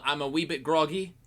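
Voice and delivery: put-on light British accent. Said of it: "why I turned British".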